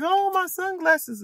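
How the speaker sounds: high, slow wail of loss; dismayed cry. Retold or imitated. Mother retelling the moment to viewers, high dismayed wail. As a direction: mourn the sunglasses in a high voice. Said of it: "I was like".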